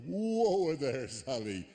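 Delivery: wag a finger at the psychic, half-joking; mock lecture to Sally. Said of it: "a point where I go".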